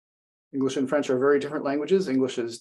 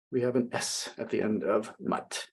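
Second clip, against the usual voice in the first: whispered aside; 3 semitones lower, 5 dB quieter than usual. Real, not acted. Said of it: "pay careful attention to this".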